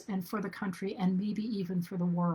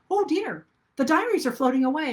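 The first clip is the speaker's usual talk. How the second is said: higher, louder, hurried mock panic; 6 semitones higher, 5 dB louder than usual. Explorers losing the journals downstream, in hammed-up panic. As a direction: fret like the explorers watching the journals drift. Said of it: "And they're like".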